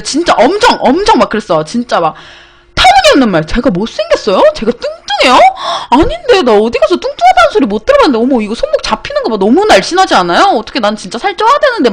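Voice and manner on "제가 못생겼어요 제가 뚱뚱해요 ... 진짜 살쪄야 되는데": higher, hammed-up innocent protest; absurd mock protest. Replaying her absurd reply to the survey man, mock protest. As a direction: play the nonsense claims with a half-laugh. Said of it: "진짜로 말도 안 되는 소리 막 짓거리면서".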